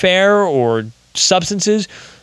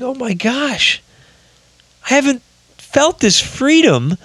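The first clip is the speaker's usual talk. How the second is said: high, slow, voice close to breaking; emotional realization; 10 semitones higher, slower than usual. Retold or imitated. Veteran recalling his first moment of freedom, choked up. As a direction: let the wonder crack through. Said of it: "And I realized, like".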